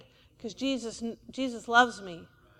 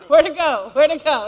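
louder, puzzled doggy voice, asking twice; dog's confused voice; 2 semitones higher, 9 dB louder than usual. Retold or imitated. The pastor voices his dog looking for the tennis ball, loud and puzzled. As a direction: play the clueless dog hunting for his ball. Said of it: "he'll go".

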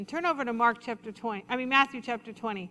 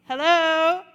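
incredulous hello; 4 semitones higher, 12 dB louder than usual. Retold or imitated. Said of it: "be like".

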